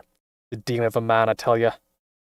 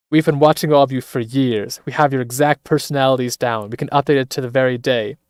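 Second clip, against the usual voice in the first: menacing announcement; 6 dB louder than usual. Acted. Villain taunt in game scene.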